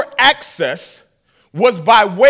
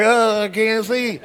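slow, laughing mock whine; hammed-up whimper; slower than usual. Punched Johnny whining he can't see, hammed-up. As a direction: play the wounded kid for laughs.

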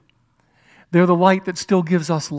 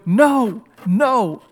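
anguished cry; 4 semitones higher than usual. Acted. Jesus crying out, screaming.

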